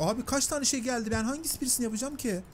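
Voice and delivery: pitched high, quick and baffled; lost and asking why, rushing the words; exasperated confusion. Real, not acted. Confused by the game task.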